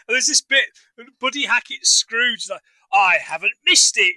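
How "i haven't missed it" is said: put-on terrible English accent. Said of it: "in terrible English accent".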